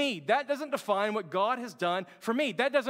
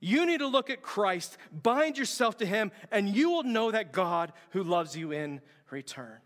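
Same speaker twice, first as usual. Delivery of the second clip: slow, emphatic retort acted out; firing back; slower than usual. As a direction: retell the priest's firm, drawn-out reply. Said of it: "the guy fires back".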